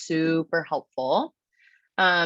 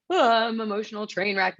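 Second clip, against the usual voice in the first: a hammed-up, higher wail of self-pity; mock dramatic; 5 semitones higher than usual. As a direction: play the overwrought train wreck, lightly. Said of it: "And not emotional like".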